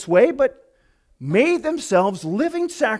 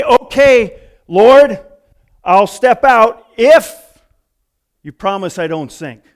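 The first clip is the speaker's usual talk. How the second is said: bargaining; 10 dB louder, slower than usual. Retold or imitated. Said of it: "he didn't say".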